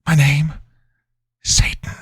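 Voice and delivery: high squeal dropping to a hiss; mocking voiceless demon reveal; demon answering. A narrator's reading. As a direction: start high, whisper the name.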